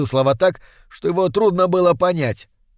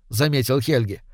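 ordinary delivery

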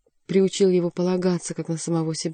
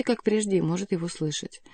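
plain reading voice

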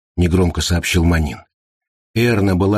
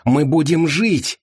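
higher, slow joyful cry; happy relief; 9 semitones higher, slower than usual. A narrator's reading. Anderson rejoices that they are saved, slow and joyful. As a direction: savour being saved, beaming. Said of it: "счастливо рассмеялся Андерсон".

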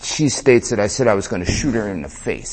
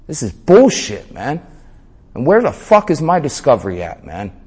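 louder, higher indignant outburst; retold yelling; 5 semitones higher, 4 dB louder than usual. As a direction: raise your voice in mock outrage at the court. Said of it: "So now I'm yelling at him".

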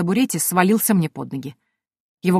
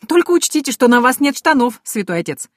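chuckling; 6 semitones higher, 4 dB louder than usual. Acted. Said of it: "хохотнула я".

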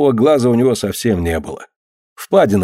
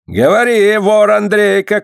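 shouting; 12 semitones higher, 3 dB louder than usual. A narrator's reading. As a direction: yell at the accused thief. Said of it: "крикнул на него дьяк".

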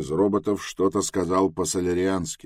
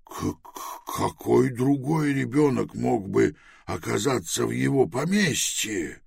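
nervous stutter, hot-tempered; stammering; 6 semitones higher than usual. Acted. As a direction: stammer out the first sound. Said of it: "Заикаясь".

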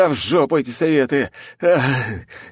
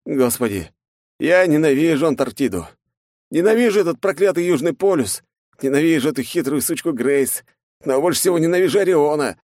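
angry rant; 8 semitones higher than usual. Acted. Exhausted hero rants about his enemies. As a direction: spit out every hatred.

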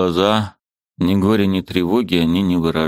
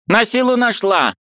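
put-on high, fussy old woman; a bustling old aunt, pitched high; old aunt's voice. A narrator's reading. Old aunt shooing the niece, high fussy voice.

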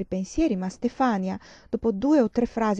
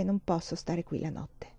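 much softer, choked-back words; swallowing a bitter lump; 7 dB quieter than usual. Acted. Mother admitting she cannot stay, softly choked. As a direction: push it out through a tight throat. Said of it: "ingoiando un nodo amaro".

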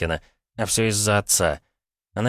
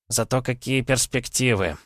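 higher, mildly wistful exclamation; вздох; 5 semitones higher than usual. A narrator's reading. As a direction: sigh it out lightly. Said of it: "вздохнул Виноград". (с лёгким вздохом)

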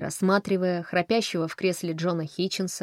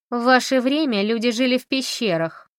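melancholy jab; 6 semitones higher, 5 dB louder than usual. Acted. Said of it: "меланхолично съязвила Камила Фрост".

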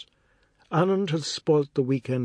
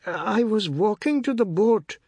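put-on angry boy; 9 semitones higher, 3 dB louder than usual. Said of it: "His expression was one of anger".

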